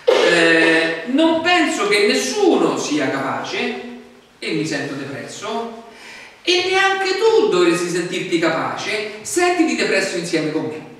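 loud, slow, hammed-up gloom; mock despairing voice. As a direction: drag everyone into despair. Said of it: "sto dicendo semplicemente". (tono depresso esagerato, lento e forte)

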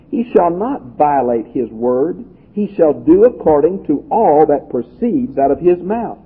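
measured, emphatic Bible reading; scripture reading. Acted. Preacher reading God's law to the congregation, emphatic scripture reading. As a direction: read the verse out with deliberate weight.

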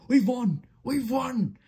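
very high triumphant cry; excited shout. A narrator's reading. Fireman from the cab roof, shouting in triumph. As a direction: cheer in a high character voice. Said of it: "he shouted".

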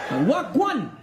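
"Wagwan" chopped into two short bursts; cut short, sounding Chinese. Retold or imitated. Comic repeating the mocked greeting, "Wagwan" cut short. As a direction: cut "Wagwan" short like a mock foreign word. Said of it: "that sound Chinese".

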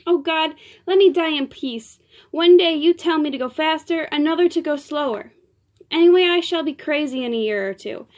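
loud, high despairing wail; a weeping diva's dramatic lament; tearful lament. Acted. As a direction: plead to be left alone, hammed-up. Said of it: "More tears from the Piccola".

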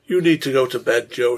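wife insists husband goes to bed, firmly; determined. Acted. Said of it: "she said determinedly".

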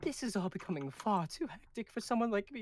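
put-on Galen's lines with an unplanned accent. Reading Galen's line to the crew, accented. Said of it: "is that out of an accent?".

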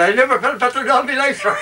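high, shouted through laughter; laughing punchline. Retold or imitated. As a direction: burst out the line laughing, voice jumping high.

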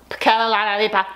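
gum in mouth; chewing gum. Real, not acted. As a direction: talk through chewing gum. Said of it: "I have gum in my mouth".

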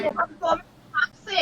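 retold scolding. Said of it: "เจ๊แม่งโคตรโมโหเลยอะ".

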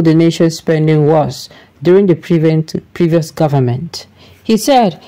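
steady news-bulletin reading voice. Acted. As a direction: read it like a newscaster presenting the story. Reads a news article aloud.

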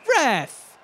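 loud, high, stretched-out yell at the ref; protesting shout. Real, not acted. Gamer protesting a charging call to the ref, outraged shout. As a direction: shout it in outrage, dragging the words.

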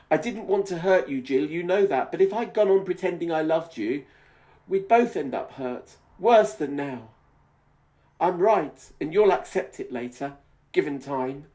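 hammed-up earnest boyfriend; Glenn's voice. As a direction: press him to accept it.

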